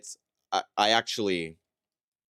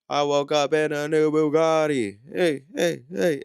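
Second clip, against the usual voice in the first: hyped lyric shout; 7 semitones higher, 6 dB louder than usual. Retold or imitated. Mimicking the routine's lyric moment.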